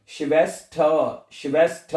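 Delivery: श्वेस्थ with an open "tha" ending; silent final R. Shown as a demonstration. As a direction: leave the R off श्वेस्थ. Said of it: "उसको आपने pronounce नहीं करना".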